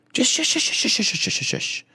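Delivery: high, fading shush to unvoiced. Comic hushing the girl, fading into a breathy shush. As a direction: shush her down to nothing.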